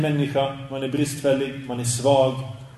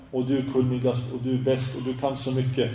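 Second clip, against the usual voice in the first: mock fawning flattery; 2 semitones lower, 6 dB quieter than usual. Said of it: "folk prata till en sheikh på det här sättet".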